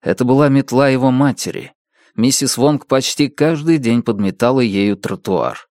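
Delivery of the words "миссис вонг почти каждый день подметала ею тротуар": usual speaking voice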